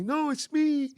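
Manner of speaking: high, loud, laughing through the words; laughing reveal. Retold or imitated. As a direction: burst out laughing as you say it. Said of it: "Ricky comes out laughing at me".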